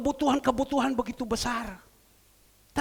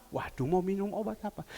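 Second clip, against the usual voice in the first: softer, lower fretting over the medicine; worried mutter; 3 semitones lower, 5 dB quieter than usual. Retold or imitated. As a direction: gumam cemas "Waduh, mau minum obat apa?". Repeats it as the worried sick woman. (bergumam cemas dan pelan)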